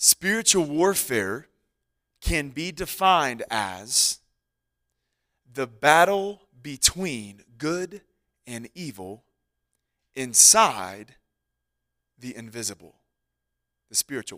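speaking slowly and deliberately. Defining a term so listeners can write it down: speaking slowly for note-taking. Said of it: "I'll say this slow so you can".

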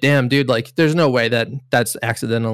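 plain

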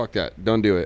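ordinary delivery

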